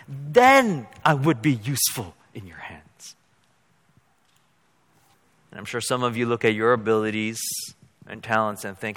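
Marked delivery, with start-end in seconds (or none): 0.1-3.1 whispered end of a mock prayer. Pastor whispering his wish to God. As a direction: breathe it out as a secret plea.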